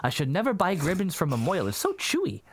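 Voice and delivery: put-on old Yiddish woman, New York Jewish accent. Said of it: "this Yiddish woman".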